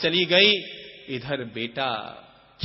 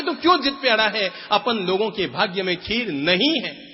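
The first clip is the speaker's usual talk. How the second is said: scolding mother; 4 semitones higher than usual. Acted. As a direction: snap at the stubborn child. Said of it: "mummy ने बहुत डांटा".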